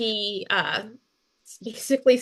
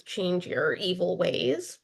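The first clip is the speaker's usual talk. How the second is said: slow, grudging warning forced out; through gritted teeth; 3 semitones lower, 5 dB quieter, slower than usual. Retold or imitated. Jonah grudgingly warning Nineveh, through gritted teeth. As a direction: say it like you hate every word of it. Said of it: "through just gritted teeth".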